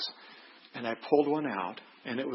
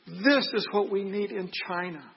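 higher-pitched, emphatic "This is what we need in China"; 7 semitones higher than usual. Retold or imitated. Officer points to his phone and tells the visitor, with emphasis. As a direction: lift "This" high and press the point through "China". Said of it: "just with emphasis".

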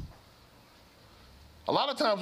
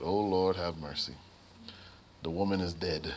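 low, hushed cry of despair; despairing lament; 12 semitones lower, 4 dB quieter than usual. Retold or imitated. Nurse groans softly to the Lord as the patient flatlines. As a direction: sink your voice low and soft, as if all hope is gone.

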